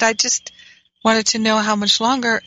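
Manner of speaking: a mild, sweetly innocent request; gentle asking. Shown as a demonstration. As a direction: ask it as gently as you can. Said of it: "And I said it just like that".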